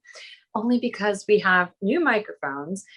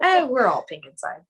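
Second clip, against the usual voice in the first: Michael; 4 semitones higher, 3 dB louder than usual. Retold or imitated. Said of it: "That's Michael's favorite line to say".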